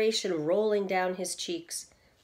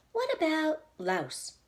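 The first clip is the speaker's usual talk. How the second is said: a slow, higher, wondering suggestion; lightly voiced Missus Little; 8 semitones higher, slower than usual. A narrator's reading. The wife offers a rhyme, slow and high. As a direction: offer the word slowly and high. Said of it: "asked Missus Little".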